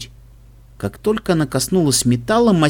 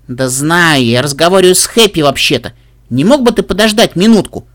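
impatient interruption; 5 dB louder than usual. Acted. Filly cutting off the suit.

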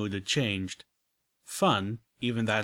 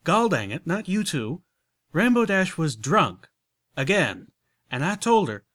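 flustered country mare; 7 semitones higher, 7 dB louder than usual. Acted. Applejack explaining the drunk Rainbow Dash, flustered country voice. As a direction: blurt it out, embarrassed and country.

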